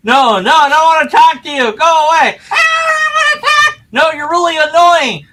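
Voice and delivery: very high shrieking cartoon yell; shouting funny voice. Shown as a demonstration. Showing a silly voice as an entertaining example, high shriek. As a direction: shriek it away like a cranky cartoon. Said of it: "an example of something".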